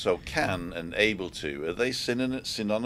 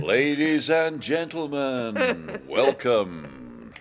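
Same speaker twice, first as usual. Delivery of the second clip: mock announcer; 5 semitones higher, much slower than usual.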